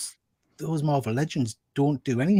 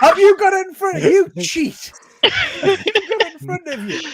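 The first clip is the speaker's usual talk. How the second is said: teasing; 4 dB louder than usual. Real, not acted. Teasing a friend for cheating.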